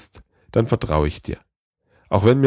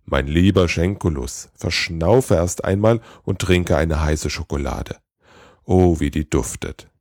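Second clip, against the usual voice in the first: soothing; 3 semitones lower than usual. Acted. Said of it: "versuchte Schenkulus zu beruhigen".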